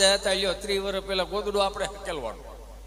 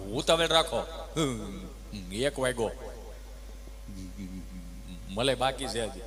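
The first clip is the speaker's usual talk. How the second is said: lower, offhand hurry-up; impatient pupil; 10 semitones lower, 6 dB quieter than usual. Retold or imitated. Pupil Gabha hurrying the teacher, low and offhand. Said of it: "તો કે".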